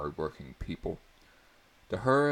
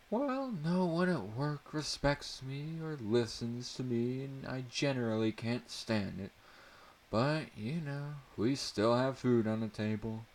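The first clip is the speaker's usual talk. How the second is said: stern mother; 7 semitones higher than usual. A narrator's reading. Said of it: "she said in a stern tone".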